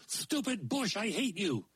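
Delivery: a tiny grump cursing his tangled beard; grumpy yell. Acted. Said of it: "yelled the dwarfy man".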